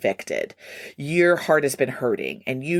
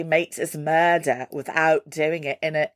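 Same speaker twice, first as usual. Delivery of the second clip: put-on British accent. Host quoting a band's album title, mock British accent. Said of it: "a little bit of a British accent".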